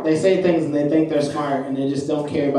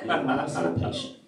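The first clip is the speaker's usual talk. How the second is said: soft, understated repeat; quiet callback; 9 dB quieter than usual. Retold or imitated. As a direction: repeat it softly to yourself after the laugh. Comedian repeats the line to himself.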